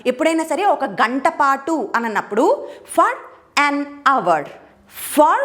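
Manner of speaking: ordinary talk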